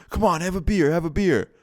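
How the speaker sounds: put-on high-pitched, pushy drunk coaxing; drunk dude. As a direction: imitate a hammered bro pressing drinks on guests. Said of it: "three other dudes just hammered".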